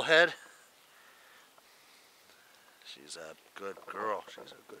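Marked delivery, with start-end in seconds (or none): 2.8-4.8 whispered praise for the dog. Real, not acted. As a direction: whisper it close to the dog's ear.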